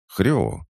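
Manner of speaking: high little piglet grunt; piglet oink. A narrator's reading. Piglet nudging the hero's leg, a high oink. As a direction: oink like a small pig. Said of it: "мне в ногу что-то ткнулось".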